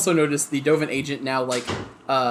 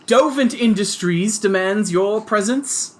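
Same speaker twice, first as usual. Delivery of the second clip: loud, high Brooklyn agent shouting orders; mild Brooklyn accent; 6 semitones higher, 4 dB louder than usual. Acted. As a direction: bark it like a Brooklyn heavy, toned down. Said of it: "he's got less of a Brooklyn accent as he goes".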